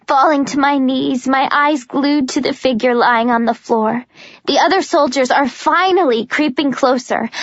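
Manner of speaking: ordinary delivery, nothing marked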